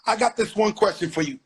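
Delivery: loud announcement. Real, not acted. Announcing question loudly.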